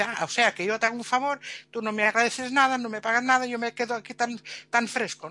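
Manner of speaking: lightly acted complaint, building in indignation; angry fox. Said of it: "el zorro enfadado dice".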